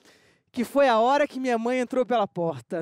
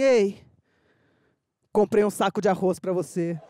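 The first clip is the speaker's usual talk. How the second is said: sultry whisper in the ear; 7 semitones lower than usual. Retold or imitated. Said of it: "bem gostosinho no meu ouvido e falou assim".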